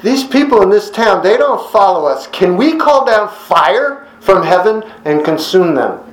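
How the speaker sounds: high, fired-up plea to the Lord; eager disciples. Retold or imitated. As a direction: ask as zealous sons of thunder. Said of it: "they asked him".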